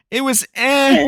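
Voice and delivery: mock indifference. Acting out what a C grade means.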